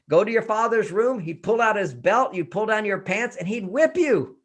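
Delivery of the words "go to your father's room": stern father. Retold or imitated. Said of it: "he'd say".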